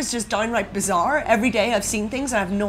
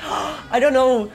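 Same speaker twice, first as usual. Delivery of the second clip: choked up; much slower than usual. Real, not acted. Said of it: "I almost cried".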